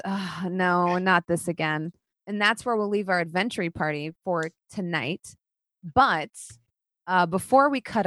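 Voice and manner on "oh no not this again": mildly exasperated sigh; understated weary dismay. Acted. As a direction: sigh it out, resigned. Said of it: "Freely sighs".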